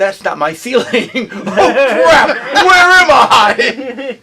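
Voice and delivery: rising from a mild mock daze to a loud, slow "where am I?"; waking in panic. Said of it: "and going".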